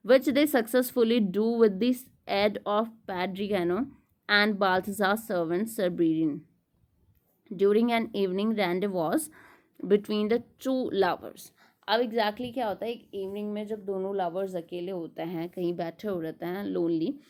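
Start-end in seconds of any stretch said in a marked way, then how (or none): 0.1-11.5 slow, measured read-aloud of study notes; deliberate lecture-room reading. Acted. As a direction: read the text out slowly and deliberately. Reads English summary aloud.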